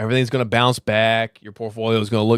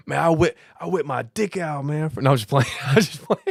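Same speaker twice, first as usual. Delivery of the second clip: higher, laughter breaking into the words; laughing; 5 semitones higher than usual. Real, not acted. Streamer joking with viewers, laughing. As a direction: joke through real giggles. Laughing at own crude joke.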